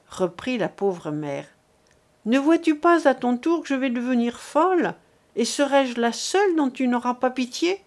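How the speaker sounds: a lightly voiced desperate mother; begging mother. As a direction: implore them to spare him. Mother begs her son.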